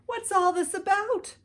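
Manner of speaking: high, loud call; crowd shouting. A narrator's reading. Townspeople shouting as they rush in. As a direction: call out in curiosity. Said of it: "the people came shouting".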